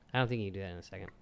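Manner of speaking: whispering. Real, not acted. Whispered remark.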